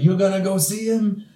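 high, loud mocking jeer; mocking Stromboli. Stromboli mocking Pinocchio, high, loud jeer. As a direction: sneer at the puppet's hope. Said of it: "He's like".

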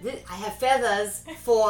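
loose European-blend accent, played for laughs; mock European accent. Quoting a film line to a friend, mock European accent. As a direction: put on a vague European accent. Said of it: "not sure what this accent is".

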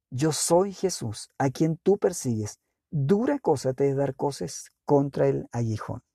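slow, weighty delivery of scripture; solemn slow quote. Acted. Jesus answers stunned Saul, slow and solemn. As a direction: give each phrase room, slowly.

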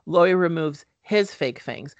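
"his" set apart and punched in correction; stress on his. Real, not acted. Podcaster correcting a misread line, stress on "his". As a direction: lean firmly on "his".

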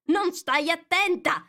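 stern. A narrator's reading. Mouse sternly scolding Alice for not listening. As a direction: scold the inattentive girl. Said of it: "disse il topo ad Alice severo".

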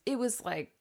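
a hint of a fussy grandma; old lady voice. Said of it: "This is my old lady voice".

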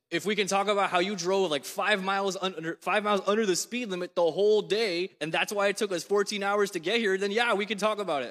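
wife snapping back. Retold or imitated. Wife retorting to her husband in the car, mock indignant. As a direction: fire back at him with a ready answer. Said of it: "she whirls on me".

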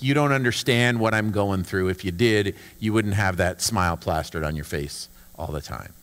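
low, soft, sour mutter; gloomy grumble. Pretend. Hurting person grumbling at a cheery friend, low and soft. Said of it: "You ever have that feeling?".

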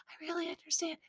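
imitating a hushed, breakup whisper. Podcaster mimicking Greer's odd reaction, whispering. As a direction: whisper it softly instead of crying. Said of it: "She was I T M-ing in a whisper".

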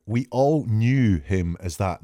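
slow, deliberate reading of "We all knew him as that", leaning on "knew"; stress on tense. Shown as a demonstration. Analyst pointing out the past tense to viewers, slow and deliberate. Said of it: "Look at the tenses here".

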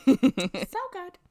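high, loud gushing repeat. Real, not acted. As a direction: gush over it. Gushing over the show.

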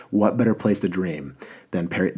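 light attempt at French accent; a hint of a creepy French romantic. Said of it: "That might have been so creepy what I just did".

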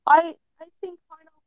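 glitchy, warbling call audio; broken-up call line, voice wobbling; wobbly warbling call audio. Real, not acted. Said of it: "You're glitching out".

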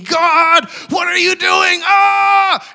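high, loud cry out to God; retold screaming. Young intern face down crying to God, screaming. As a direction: scream it upward, ending in a long wail. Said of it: "I'm screaming".

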